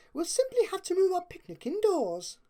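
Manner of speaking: high, grand and determined; Rarity declaring. A narrator's reading. Rarity rallying her friends against the rain, declaring. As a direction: announce it like a lady taking charge.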